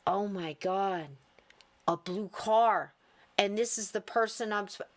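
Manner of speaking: understated amazement, as if it finally clicks; awestruck realisation. Retold or imitated. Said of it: "you then go".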